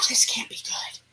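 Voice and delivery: sighed, voiceless whisper; hushed dread. Retold or imitated. Teller hears the train come back, hushed dread. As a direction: breathe it out under your breath, with misgiving.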